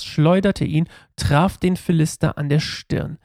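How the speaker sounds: measured, emphatic read-aloud; Bible story narration. A narrator's reading. Pastor reads David and Goliath to listeners, storytelling delivery. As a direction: read it as a dramatic story, weighting key words.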